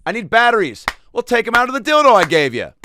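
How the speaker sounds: high, loud whiny complaint; Matt Lauer. Retold or imitated. TV host complaining to Christina, high whiny voice. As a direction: whine up high about the batteries. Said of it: "here's my Matt Lauer".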